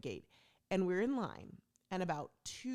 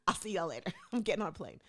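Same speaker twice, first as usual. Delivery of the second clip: laughing; 4 dB louder, faster than usual. Real, not acted. Laughing through parting words.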